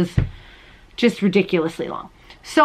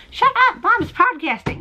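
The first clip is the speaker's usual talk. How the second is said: much higher mock kid shushing; imitating daughter; 12 semitones higher than usual. Daughter hushing little brother during recording, mock shushing. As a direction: snap it like a bossy big sister. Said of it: "she's like".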